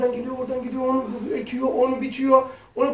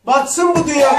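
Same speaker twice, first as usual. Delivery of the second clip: mock despair; 5 semitones higher, 8 dB louder than usual. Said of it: "diye intihar ediyor".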